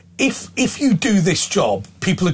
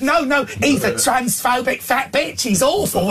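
high, slow camp sneer; impersonating a camp heckler telling everyone; Alan Carr; 7 semitones higher, slower than usual. Retold or imitated. Heckler tells passengers the presenter is awful, camp mimicked sneer. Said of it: "he sounded like Alan Carr".

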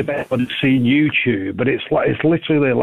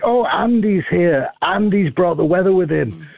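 higher-pitched mock-gleeful crowd; mock delight; 4 semitones higher than usual. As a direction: gush with pretend hope, drawing it out a little. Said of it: "we're all gonna think".

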